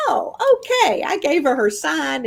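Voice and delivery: high, mock-pleased realization; self-congratulatory. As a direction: pat yourself on the back, playfully. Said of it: "just started feeling that".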